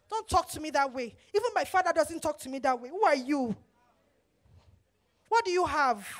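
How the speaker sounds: mild mock indignation at a husband; sassy defiance. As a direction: act out a wife talking back. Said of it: "neck twisting, always breaking".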